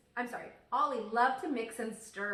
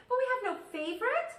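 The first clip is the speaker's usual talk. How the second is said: much higher, louder frustrated shout; 14 semitones higher, 6 dB louder, faster than usual. Acted. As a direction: yell it out in a child's despair. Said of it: "shouted Ollie".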